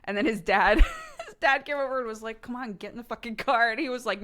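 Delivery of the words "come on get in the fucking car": impatient dad. Retold or imitated. Dad ordering kid into car.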